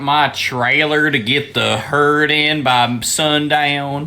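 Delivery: mock Southern rancher accent; put-on Southern twang, slowing at the end; Stinky. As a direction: imitate a Southern cartoon character. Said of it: "that southern voice is the Stinky character".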